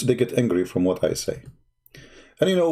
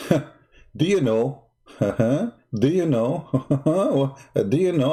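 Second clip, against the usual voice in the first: teasing questions broken by laughs; getting excited. Real, not acted. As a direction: bubble over with amused glee. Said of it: "I'm getting excited now".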